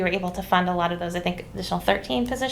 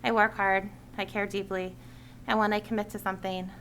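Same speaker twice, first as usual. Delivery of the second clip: measured read-out public statement; prepared speech; 5 dB quieter than usual. Real, not acted. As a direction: deliver a written address to the committee. Reads a prepared committee speech.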